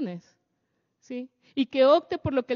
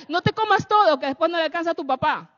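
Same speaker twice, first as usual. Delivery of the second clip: scolding mother; 4 semitones higher, 5 dB louder than usual. Retold or imitated. Madre regaña en la mesa.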